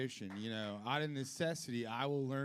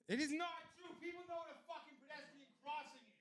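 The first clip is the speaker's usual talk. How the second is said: mock indignant voice; 14 semitones higher, faster than usual. High put-on voice, different timbre.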